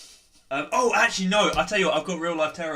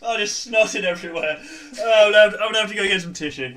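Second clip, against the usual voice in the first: laughing through pain; 4 semitones higher, 3 dB louder than usual. Real, not acted. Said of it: "my side's genuine".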